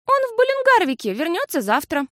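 put-on confident, high child voice; уверенно. A narrator's reading. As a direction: say it as if it's obvious. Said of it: "уверенно сказала Фиасоль". (уверенно)

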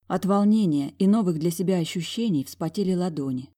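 plain reading voice

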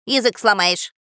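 loud disgusted parrot grumble; grumbling. Acted. Parrot fed up with the long name, grumbling. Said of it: "проворчал он".

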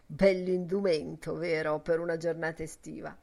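understated mocking remark; a touch of a snigger, dryly sarcastic; sneering murmur. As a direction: murmur it with a sly snicker first. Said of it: "mormorò sogghignando".

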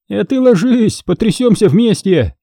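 high, pleased mocking tone; a hint of a smirking student; smug joke. A narrator's reading. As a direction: tease her, proud of the joke. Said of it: "Довольный своей шуткой".

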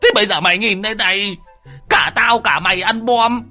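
put-on high, aggrieved old man complaining; high exasperated rant; whining scold. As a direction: berate Lâm, lamenting.

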